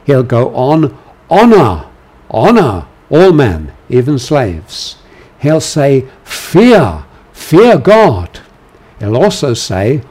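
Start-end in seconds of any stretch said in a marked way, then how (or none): 1.3-5.0 commanding voice. Shown as a demonstration. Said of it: "imperative, um, voice". 6.2-8.4 higher, louder solemn command. Shown as a demonstration. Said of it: "imperative, um, voice".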